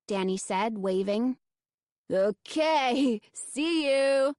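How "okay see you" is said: calling after. A narrator's reading. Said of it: "Fred called after them".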